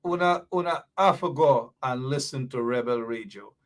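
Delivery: Jamaican patois shout-out; host giving listeners a Jamaican patois plug; Jamaican twang. Shown as a demonstration. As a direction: slip into Jamaican patois for the call-out. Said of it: "In my Jamaican twang".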